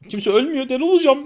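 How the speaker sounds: rising yell of frustration; exasperated shout. Real, not acted. Frustrated gamer losing it.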